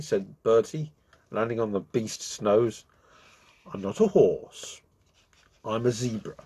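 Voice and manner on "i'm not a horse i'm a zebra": mildly cross, slowed demand; a touch of annoyance from the zebra. Acted. Zebra telling the bee off, mildly cross. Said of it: "said the zebra crossly".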